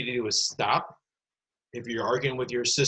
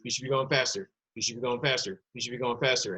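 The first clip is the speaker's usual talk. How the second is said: relentless badgering in an identical repeated tune; mock nagging; faster than usual. Teacher pushes pupils to get frustrated at thumb exercise, mock nagging. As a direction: pester them on a loop, no gaps.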